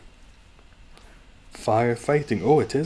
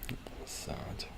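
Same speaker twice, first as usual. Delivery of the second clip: whispering; 13 dB quieter than usual. Real, not acted. Mourning dead mint plant.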